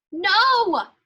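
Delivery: sharp loud no; yell. Acted. Elf stopping the reindeer eating tinsel, loud yell. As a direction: stop the reindeer with a shout. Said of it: "I yell".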